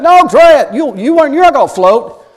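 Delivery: high, loud retold coaxing; insistent urging. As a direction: push a reluctant friend to try. Acted urging of a reluctant floater.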